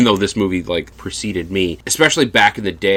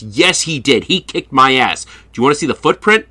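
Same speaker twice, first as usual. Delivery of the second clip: put-on higher, rushed indignant kid voice; 6 semitones higher, 4 dB louder than usual. Teen tells the babysitter her boyfriend kicked him, indignant. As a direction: insist like a wounded teenager. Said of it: "And he goes".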